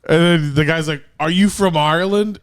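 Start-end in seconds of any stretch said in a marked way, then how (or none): 1.2-2.4 a bad, hammed-up Irish lilt, pitched higher; mock a drunk guy faking Irish; horrible fake Irish accent. Bar guy faking an Irish accent at Johnny, horribly hammed-up. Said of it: "And this horrible accent".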